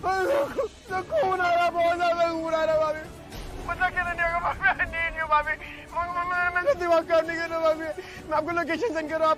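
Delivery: tearful, desperate pleading; panicked crying. Acted. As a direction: beg through tears. Injured victim, panicking.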